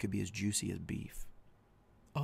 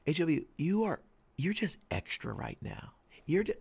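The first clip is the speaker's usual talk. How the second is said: higher mock wife voice, exasperated; imitating exasperated wife; 8 semitones higher, 4 dB louder than usual. Wife telling him off, exasperated imitation. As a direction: play the fed-up wife, pitched up.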